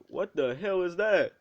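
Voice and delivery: loud, high "what the hell" in disbelief; shocked yell. Retold or imitated. Issei seeing the fallen angel, a shocked loud yell.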